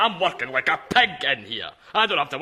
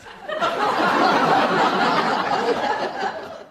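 long, breathy, high cackle; long high laugh. Acted. Willie cackling at his own cheek, long and high. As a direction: let a long wheezy laugh run out. Asking for cake.

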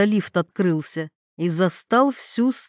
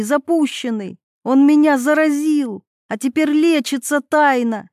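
furious screaming; 4 semitones higher, 3 dB louder than usual. Acted. Screams the secret in a fight.

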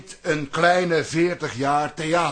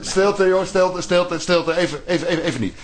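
louder, repeated hushing; hushing loudly; 4 dB louder, faster than usual. Acted. Director hushing the room over the panicking actress, louder. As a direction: silence them urgently.

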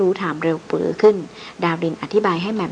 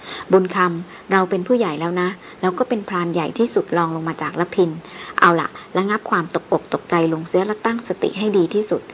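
firm, steady calm. Acted. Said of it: "ถามด้วยเสียงอันหนักแน่นมั่นคง".

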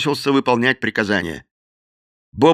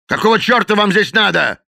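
shouted; 9 semitones higher, 4 dB louder than usual. A narrator's reading. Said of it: "закричал Мадден".

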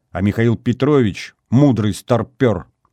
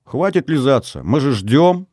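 put-on higher, lightly girlish calling; 6 semitones higher, 3 dB louder than usual. A narrator's reading. Girlfriends are waiting for Natashka, high girlish call. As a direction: nag a friend from a distance, pitched up. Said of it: "послышался высокий девичий голос".

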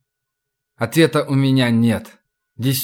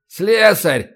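higher, thin bleating voice; 6 semitones higher than usual. Acted. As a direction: bleat it out nervously. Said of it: "каким-то противным, блеющим голосом".

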